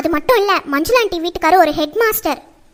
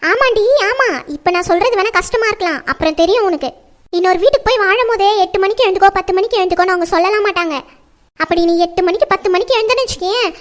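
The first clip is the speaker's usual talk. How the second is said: mildly raised scolding voice. Acted. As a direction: nag like a fed-up mother. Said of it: "என்னம்மா காலையிலே கத்திட்டே இருக்கீங்க".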